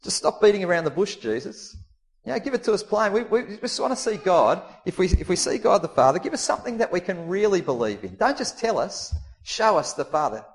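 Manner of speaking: high-pitched, pushy exasperation; impatient demand. Acted. Preacher voicing Philip's impatience with Jesus, high and pushy. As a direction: stop stalling and just show us.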